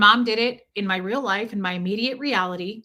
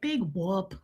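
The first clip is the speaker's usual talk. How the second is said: dismissive big whoop; 3 semitones lower, 6 dB quieter than usual. Retold or imitated. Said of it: "Kristen Wiig thing".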